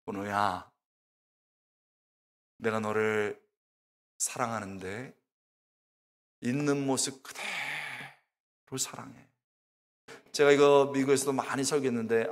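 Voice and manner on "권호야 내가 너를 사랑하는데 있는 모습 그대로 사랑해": much lower and much softer, a hushed divine voice; voice of the Holy Spirit. Retold or imitated. Preacher voicing God welcoming him home, low and hushed. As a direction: breathe it like God welcoming a long-awaited son. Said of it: "그 다음 성령의 음성이 어떻게 되냐면".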